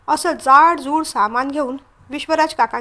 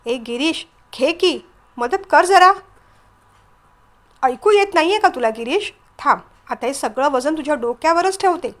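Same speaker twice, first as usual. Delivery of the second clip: mildly annoyed call for help, rising in pitch midway; understated cross demand; angry. Acted. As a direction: scold him with a touch of irritation. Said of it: "ती रागाने म्हणाली".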